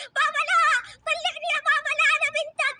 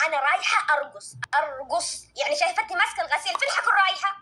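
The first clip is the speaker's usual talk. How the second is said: mother voice; 7 semitones lower than usual. Acted. Mother answers the daughter.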